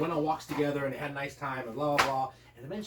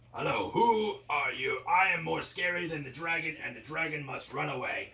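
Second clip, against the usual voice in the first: slow monster voice; slower than usual. Acted. Werewolf monster confronts dragon.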